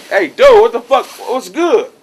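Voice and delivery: high, loud demand; irritated confrontation. Retold or imitated. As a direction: snap at him, fed up.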